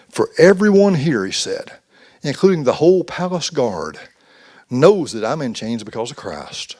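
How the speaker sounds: slow, measured reading of the letter; lightly voiced Paul reading his letter; scripture reading. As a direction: read it out deliberately, like scripture. Preacher reads Paul's letter aloud.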